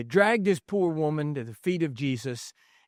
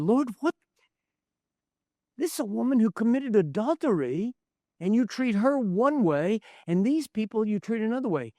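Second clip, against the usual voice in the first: incredulous interns; 5 semitones higher than usual. Retold or imitated. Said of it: "we said".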